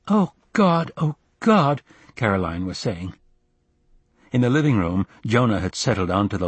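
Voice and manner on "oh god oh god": high, loud cry of pain; high pained exclamation; pained moaning. Acted. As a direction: wail it out in distress. Caroline moaning in pain in kitchen.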